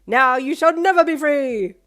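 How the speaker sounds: loud, slow, grand villain. A narrator's reading. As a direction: boom it like a cartoon villain. Continuing villain act.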